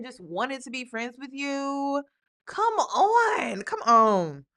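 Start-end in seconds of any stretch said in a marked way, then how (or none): 2.5-4.4 scoffing. Real, not acted. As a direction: roll your eyes and call it out. Reactor scoffing.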